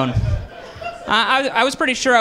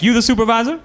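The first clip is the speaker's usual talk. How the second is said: higher put-on caller voice; caller role; 5 semitones higher, 3 dB louder, faster than usual. Job applicant calling a third time, mildly put-on higher questioning voice. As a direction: play the caller asking, pitch climbing at the end.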